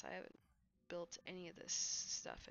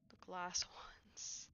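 laughing whisper. Real, not acted. Chuckles at small storage.

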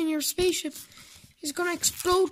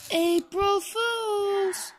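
drawn-out taunt; 5 semitones higher, much slower than usual. Acted. Prank reveal again.

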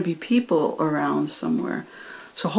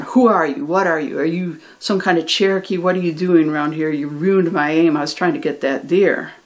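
quickened, lightly heated string of questions; half-voiced telling-off in a storyteller's retelling; mild retold yelling. Man yells at the boy who spoiled his aim, mildly heated retelling. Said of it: "he continues to yell".

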